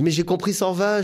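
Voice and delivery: lively, high-pitched self-defence; retold protest. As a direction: protest your misunderstanding, re-enacted.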